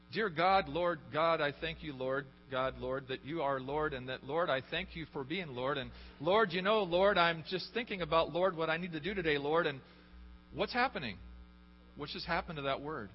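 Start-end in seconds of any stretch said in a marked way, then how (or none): 0.1-9.7 mock rambling prayer, running on evenly; mindless prayer filler. Imitating people who pad their prayers with Lord, mindless rambling. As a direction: imitate someone praying on autopilot. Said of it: "You ever heard people pray".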